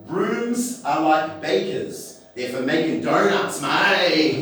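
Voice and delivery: slow drawled hint of a bogan. Bogans giving their house motto, slow bogan drawl. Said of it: "the Bogans' motto would be".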